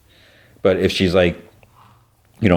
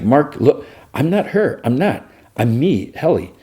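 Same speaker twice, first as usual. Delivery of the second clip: pleading; 7 semitones higher than usual. Retold or imitated. Helly pleading, retold.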